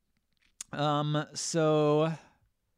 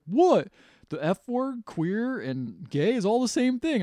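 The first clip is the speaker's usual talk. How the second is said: high-pitched, mock teenage protest; retold outraged kid; 9 semitones higher, 3 dB louder, slower than usual. Son arguing with mother about dad, retold outrage. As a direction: argue back in a higher, put-on voice.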